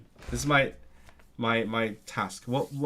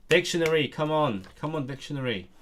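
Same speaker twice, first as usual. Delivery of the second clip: exasperated pleading; 5 semitones higher, 4 dB louder than usual. Real, not acted. Scolding an unresponsive dictionary.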